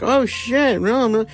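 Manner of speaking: high startled yelp of a guy being taken down; mock panicked yelp. Jiu-jitsu guy getting thrown, squealing in high panic. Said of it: "it shows, like".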